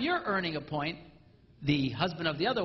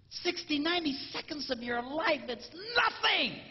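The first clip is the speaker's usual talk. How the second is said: shouting that it costs nothing; emphatic shout; 8 semitones higher than usual. Real, not acted. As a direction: yell it to the crowd. Shouting point to audience.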